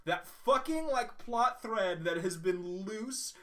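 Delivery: high, loud, drawn-out amazement; thrilled reveal. Real, not acted. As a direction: hammer out the big reveal slowly, pitched high. Thrilled reveal of Red Skull.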